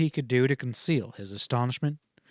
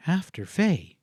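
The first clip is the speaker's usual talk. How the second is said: echoing in disbelief; 4 semitones higher, slower than usual. A narrator's reading. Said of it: "she echoed".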